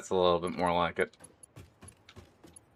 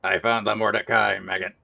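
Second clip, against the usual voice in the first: gruff soldier bark; soldier impression; 3 dB louder than usual. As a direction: bark it like a drill sergeant. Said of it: "soldier impression".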